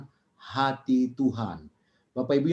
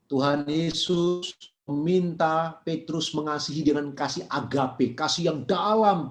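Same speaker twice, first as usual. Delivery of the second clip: ordinary talk, nothing marked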